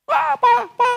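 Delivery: very high, loud calls for papa; child's yelling. Retold or imitated. Father imitates his child unable to find him, yelling. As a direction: imitate a toddler shrieking for a parent. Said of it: "teriak gitu".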